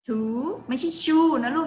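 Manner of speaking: two with a clear t, not shoe. Shown as a demonstration. Teacher correcting kids who say shoe for two. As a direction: start two with a sharp t.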